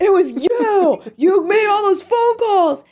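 high, loud, drawn-out shout; screamed accusation. A narrator's reading. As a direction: shriek the accusation slowly. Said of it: "Carrie screamed".

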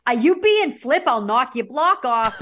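high, loud mock scolding; screaming mom. Mom screaming at her kid, imitated angry yell. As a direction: imitate a mother yelling a threat. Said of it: "screaming at me at the top of her lungs".

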